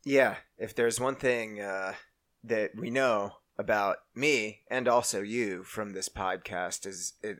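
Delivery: emotionless robot. Pretend. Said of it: "fellow emotionless robot".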